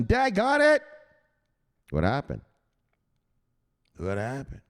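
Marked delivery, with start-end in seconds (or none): 0.0-0.8 high, loud mock cry; mock dramatic shout. Narrating the crash for viewers, hammed-up high yell. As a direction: play up the drop like a disaster.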